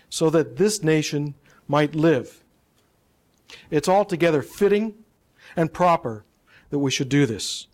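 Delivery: measured public oration with deliberate phrase breaks; formal speech. Shown as a demonstration. Speaker reciting the Gettysburg Address to an audience, formal speech. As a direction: deliver it like a solemn address, phrase by phrase.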